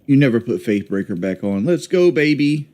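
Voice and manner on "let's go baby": hyped. Real, not acted. Hyped at a good hit.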